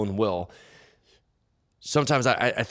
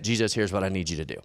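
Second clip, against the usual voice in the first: quick, slightly lowered statement, no asking in it; matter-of-fact demand; 3 semitones lower, faster than usual. Acted. Man telling Jesus what he needs, as a statement. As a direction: state it briskly as a settled demand. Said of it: "It's said as a statement".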